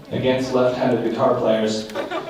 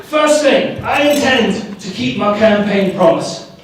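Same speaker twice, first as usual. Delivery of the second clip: louder lightly voiced British rocker; a rock star; 4 semitones higher, 4 dB louder than usual. A rock star as the new pope, lightly done London accent. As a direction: play a laid-back rock star addressing the press. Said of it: "the rock star at the Pope walks out there and goes".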